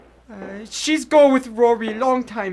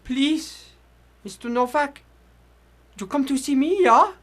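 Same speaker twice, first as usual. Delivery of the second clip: put-on weak old immigrant; 2 semitones higher than usual. Old immigrant in hospital bed.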